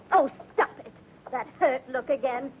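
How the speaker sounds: fed up and lashing out at him; angry outburst. Acted. Daughter lashing out at her disapproving father, angry.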